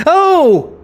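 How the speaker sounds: high, prim mother's exclamation; a mother's shrill-free high "Oh!"; mock posh mum. Mother calling her son. Mum's voice on phone.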